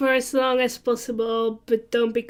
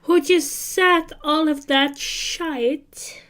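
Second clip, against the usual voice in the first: put-on terrible Australian accent; 5 semitones higher, slower than usual. Mocking the guy in a bad Australian accent. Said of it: "Why did you just become Australian?".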